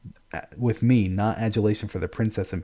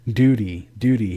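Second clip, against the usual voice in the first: loud mocking repetition; scornful shout; 6 dB louder than usual. A narrator's reading. Father throwing his daughter's word back at her, scornful and loud. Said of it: "he hurls the model like an accusation".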